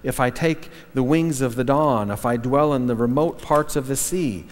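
measured, reverent Psalm reading; gentle solemn reading of the Psalm; scripture reading. Acted. Reads Psalm 139 aloud.

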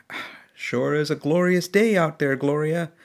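a cheerful old trucker greeting his wife, only lightly voiced; husband's voice. Old husband in the passenger seat greeting Gloria, mild cheer. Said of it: "you hear a voice saying".

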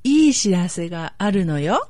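いい知らせがあるのよ said slowly, each syllable clear; slow down いい知らせがあるのよ, over enunciating. Shown as a demonstration. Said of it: "One more time slowly".

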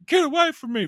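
very high hammed-up shriek; mock panic. Mocking the actress's hysterical reaction, a high shriek. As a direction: overreact like a horror victim. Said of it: "She went from zero to".

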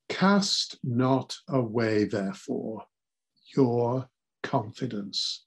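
slow, deliberate scripture reading; slow solemn reading. Shown as a demonstration. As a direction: Cast not away said slowly, each word weighed. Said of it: "not self-confidence".

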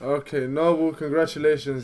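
soft, half-hearted congratulations; emotionless congratulations. Real, not acted. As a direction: congratulate with no real feeling. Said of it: "Nah, I wanna hear the emotion in your voice".

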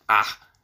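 loud, disgusted exclamation; witch's curse. A narrator's reading. Baba Yaga curses the servant, loud angry exclamation. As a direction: spit out a loud noise of anger. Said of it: "Baba Yaga cursed her".

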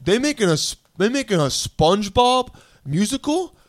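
high-pitched amazed imitation; overheard excited guy. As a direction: mimic a guy thrilled by a TV commercial. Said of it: "I hear one of the guy, guys go".

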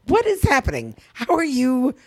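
retold disbelief. Speaker recalling reactions to a gorgeous boyfriend, incredulous. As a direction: marvel at it, dragging out the words. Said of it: "I mean, I often go".

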